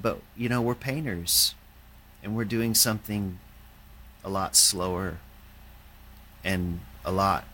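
put-on light Welsh accent; a hint of a Welsh accent. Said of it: "in his Welsh accent".

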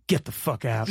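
light imitation Southern accent. Woman reacting to party's purpose, mock Southern accent. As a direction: mimic a Southern woman's amazed retort. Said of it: "in this hilarious Southern accent".

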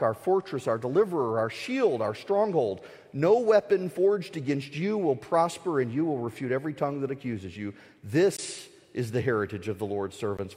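rousing scripture declamation, building in force; preach. Acted. Preacher charges listeners to be strong and courageous, rousing declamation. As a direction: deliver a firm, measured battle charge.

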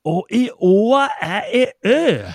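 exasperated peasant shouting in Värmland dialect; angry shout. Retold or imitated. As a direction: yell it at him in rage. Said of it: "skrek jag, för jag blev rasen".

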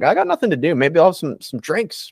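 mock casual temptation. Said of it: "I'm like".

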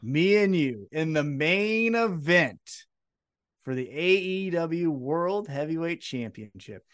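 slow, weighty retold match challenge; deliberate big-fight proclamation; dramatic challenge. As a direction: announce it slowly, spacing out each phrase. Retold title match challenge from wrestler.

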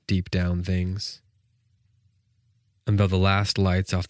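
measured, unhurried poetry recital; a teacher reading a sonnet to the class; poem reading. Acted. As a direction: read it as a poem, letting each line breathe. Reads Hopkins poem aloud.

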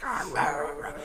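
mock growling rah rah; mean dog growl. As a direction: imitate a snarling dog. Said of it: "June sounds like a, like a, a mean dog".

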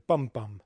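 BUM bum, first stressed, second dropping away; two-beat stress pattern. Shown as a demonstration. Lecturer showing the shortened final foot, stressed then unstressed. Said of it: "stressed syllable and one unstressed".

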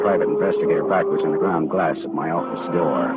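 noir narration. A narrator's reading. Detective narrating his night to listeners, dry. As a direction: tell it like a tired private eye.

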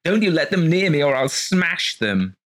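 loud high delirious cry; 헛소리하듯 높고 크게 외치며. A narrator's reading.

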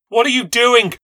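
high, loud frantic demand; angry shout. A narrator's reading. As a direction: shout through the door in panic. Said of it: "I shouted".

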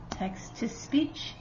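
slow soft whisper, letter by letter. Real, not acted. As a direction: whisper the words slowly as they're spelled. Reading letters as he points.

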